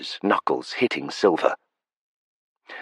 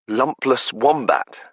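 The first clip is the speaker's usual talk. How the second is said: disbelief; 8 semitones higher, slower than usual. Acted. Laughing disbelief at insult.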